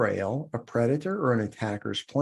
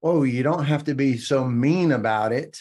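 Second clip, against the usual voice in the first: mock jerk retort; 2 semitones higher, 4 dB louder than usual. Jerk guy pushing back after her no, mildly whiny. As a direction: play a jerk guilt-tripping her a little. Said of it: "jerk guys ... will come back with".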